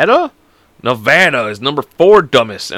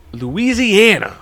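LOUISIANA drawn out in a raised pitch; hammed-up announcement; 8 semitones higher, much slower than usual. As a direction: stretch out "Louisiana" high and slow. Announcing the state, first take.

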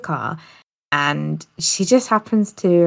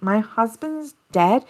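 mock shock; 5 semitones higher, slower than usual. Retold fake shock of wife.

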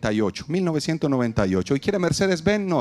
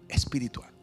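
whispered echo; 6 dB quieter than usual. Shown as a demonstration. Preacher drops Espiritual to a whisper for the congregation. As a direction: breathe the word Espiritual as a soft whisper. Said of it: "Otra vez".

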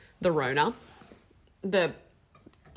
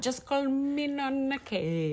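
slow lightly voiced Italian granny; a hint of a slow old nonna; 6 semitones higher, 4 dB quieter, slower than usual. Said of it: "like an Italian nonna".

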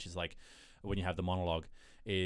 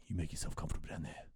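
gloating taunt; 5 semitones lower, 4 dB quieter than usual. Retold or imitated. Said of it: "is like".

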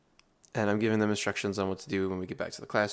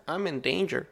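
chuckling mock panic; 6 semitones higher than usual. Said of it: "I'd chuckle and go".

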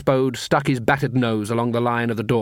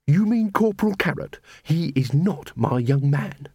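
Angua's voice pitched up in protest; indignant Angua. Acted. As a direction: insist he is not her young man.

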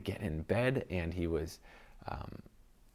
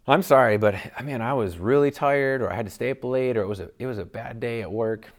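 excusing apology; 3 semitones higher, 6 dB louder than usual. Retold or imitated. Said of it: "explain it away".

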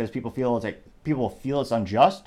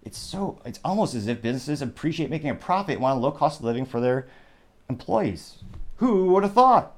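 sarcastic; 2 semitones higher than usual. Acted. Mocking New York about businesses leaving, sarcastic. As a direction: play it dry, as if it's a big surprise. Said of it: "that is called sarcasm".

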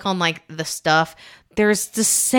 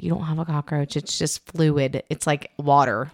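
reassuring doctor; 3 semitones lower, 3 dB quieter than usual. Retold or imitated.

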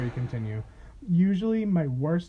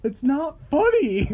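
suppressed laughter; 8 semitones higher, slower than usual. Real, not acted.

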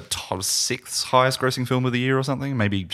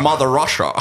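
put-on Russian accent; 4 semitones higher, 3 dB louder than usual. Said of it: "we're all doing our Russian accents".

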